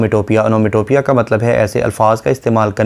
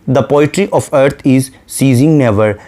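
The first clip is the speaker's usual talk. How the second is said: very slow, measured poetic reading; a lightly recited line of poetry; slow poem recitation; much slower than usual. Shown as a demonstration. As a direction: draw out each word of the verse.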